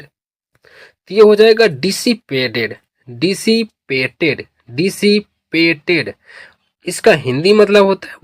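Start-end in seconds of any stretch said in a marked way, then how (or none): 0.0-6.1 डिसिपेटेड repeated slowly, syllable by syllable; slow drill. Shown as a demonstration. Teacher drills students on the new word, slow. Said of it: "teacher drills the word".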